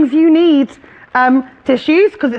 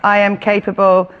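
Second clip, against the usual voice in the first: reciting a mantra; 3 semitones lower than usual. Shown as a demonstration. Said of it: "just a mantra to remember that".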